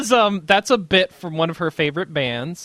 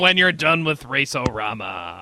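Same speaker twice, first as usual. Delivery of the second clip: used car salesman voice. Acted. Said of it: "hardcore edgy voice".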